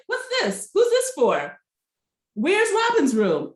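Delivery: high-pitched, incredulous questioning; mock dismay. Recapping two women's reaction to their shared room, mock dismay. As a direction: squeal the questions in exaggerated disbelief. Acting out indignant roommates' reaction.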